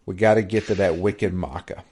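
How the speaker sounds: put-on hammy Boston accent, dropped r's; bad Boston accent. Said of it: "someone doing a really bad Boston accent".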